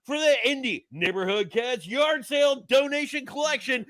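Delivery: put-on upbeat promo in a light British accent. Producer hypes the signing in a British accent. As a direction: announce the book signing in a mild British accent. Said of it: "I like that you went with the British voice".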